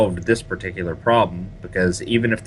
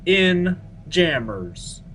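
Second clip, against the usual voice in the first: sing-song; 10 semitones higher, much slower than usual. Acted. Playfully repeating name.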